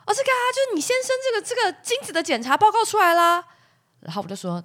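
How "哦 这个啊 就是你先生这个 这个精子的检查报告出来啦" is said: high, quick, chirpy phone voice; chirpy clinic counselor. Retold or imitated. Clinic counselor on the phone to the wife, chirpy and high. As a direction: play the breezy counselor reading out results. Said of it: "他就说".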